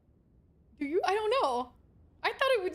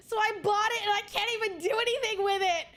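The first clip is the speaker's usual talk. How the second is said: laugh-crying; 5 semitones higher than usual. Real, not acted. Upset over record player.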